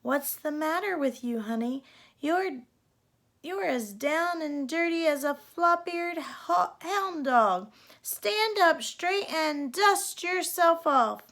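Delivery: put-on a tough old gal telling her to shape up; scolding cowgirl godmother.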